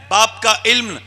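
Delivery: rising declamation of a couplet, building in force; reciting Iqbal's verse. Acted. Preacher recites Iqbal's verse to the gathering, building declamation. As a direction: recite the poem to the crowd, swelling on each line. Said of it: "और एक इकबाल कहता है".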